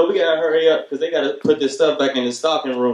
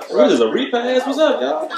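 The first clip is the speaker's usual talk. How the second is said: high, laughing hello to the crowd; laughing through a hello to the room; laughing greeting; 9 semitones higher than usual. Real, not acted.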